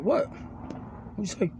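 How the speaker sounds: high, slow, breathy disbelieving ask; mock confused question. Imitating himself baffled by unfamiliar food talk, hushed and drawn out. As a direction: play baffled, stretching it out in a hush.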